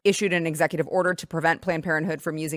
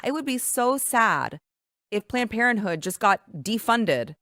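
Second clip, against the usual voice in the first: mock sadness; 5 semitones higher than usual. Host mocking Planned Parenthood's loss, sarcastic fake grief. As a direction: pretend to be choked up over the news. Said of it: "Oh no, wait, that's not a tear".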